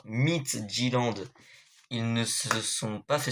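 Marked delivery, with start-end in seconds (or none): 0.0-1.2 Midtjylland slowly, as "mit-ji-land"; tentative pronunciation. Real, not acted. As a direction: feel your way through Midtjylland with a French accent. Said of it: "ça s'appelle comment, excusez-moi". (Midtjylland prononcé lentement, en hésitant)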